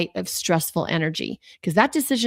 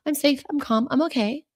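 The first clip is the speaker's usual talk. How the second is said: higher, quicker affirmations; repeating her mantra higher and brighter; repeated mantra, higher; 8 semitones higher than usual. Retold or imitated. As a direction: lift it as you repeat the mantra. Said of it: "All my wonderful mantras that I love".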